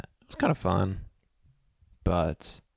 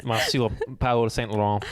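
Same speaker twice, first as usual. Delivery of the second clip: put-on French accent; slower than usual. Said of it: "like, an accent".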